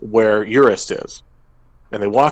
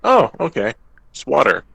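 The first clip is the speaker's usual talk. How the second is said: mildly surprised dwarf; 4 semitones higher than usual. Retold or imitated. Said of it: "rolled a nat twenty ... and went".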